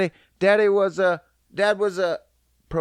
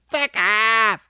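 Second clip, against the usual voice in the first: affectionate; 6 semitones higher, 5 dB louder than usual. Shown as a demonstration. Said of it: "Fuck off means, "I love you".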